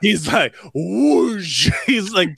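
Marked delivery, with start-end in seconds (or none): 0.7-1.7 raised-pitch throwing sound effect; imitated whoosh. Co-host mimics the kid's throw from the overpass, whooshing. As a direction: mimic something flying through the air.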